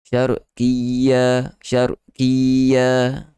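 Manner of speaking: syarqiyya with the doubled y pressed; stressed yy. Shown as a demonstration. Teacher modelling emphasis on syarqiyya. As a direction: push the yy in syarqiyya. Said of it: "Kena syarqiyya".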